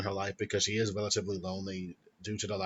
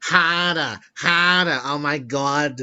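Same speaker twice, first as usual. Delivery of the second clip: movie joke impression; 4 semitones higher, 7 dB louder than usual. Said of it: "a Ted or whatever".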